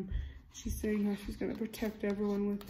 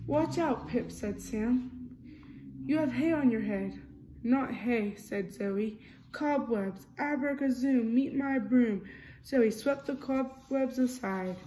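lively storybook reading, character lines a bit louder; reading to children; 3 dB louder than usual. A narrator's reading. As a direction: read it like a bedtime picture book. Reading picture book aloud.

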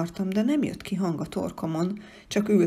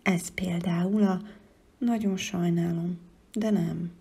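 sorry. Acted. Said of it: "pislogott bánatosan".

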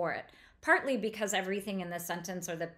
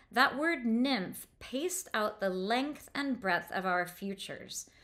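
slow reread; slower than usual. Shown as a demonstration. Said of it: "we're gonna go back".

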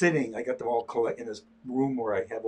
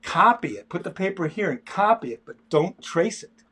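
emphatic mother's orders, building higher and louder; retold near-yell; 3 semitones higher, 3 dB louder than usual. Artist acts out mother telling her kids to copy, mild mock yell. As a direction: imitate a parent insisting, just short of yelling. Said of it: "practically yelling at us".

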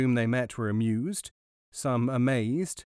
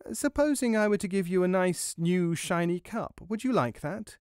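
high little mouse making an offer; coaxing mouse; 6 semitones higher than usual. A narrator's reading. Mouse makes dairyman an offer.

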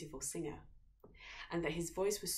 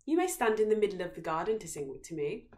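a hint of a haughty princess, louder; 8 dB louder, faster than usual. A narrator's reading. Princess granting the singer permission from above. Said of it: "she said to him".

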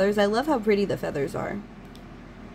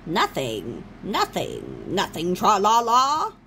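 character impressions; slower than usual. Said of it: "my horrible impersonations".

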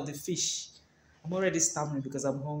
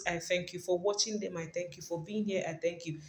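murmured thanks; 7 dB quieter than usual. Real, not acted. Murmured run of repeated thanks.

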